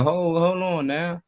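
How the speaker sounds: high, drawn-out objection; mock protest. Parent objecting to grandparents babying the kids, mock protest.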